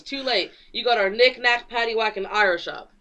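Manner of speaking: lively read-aloud taunt; acted taunt. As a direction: toss out a hero's mock-triumphant retort. Quoting a comic hero's taunt.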